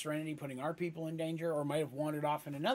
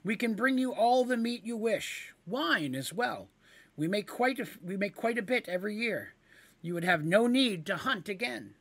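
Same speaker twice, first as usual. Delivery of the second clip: louder, higher eager offer; higher, louder eager pitch; kender voice; 6 semitones higher, 4 dB louder than usual. Acted. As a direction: sell the deal hard.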